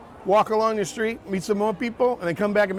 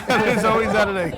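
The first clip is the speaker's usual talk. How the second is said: laughing; 3 semitones higher, 3 dB louder than usual. Real, not acted. Repeating a quip while laughing.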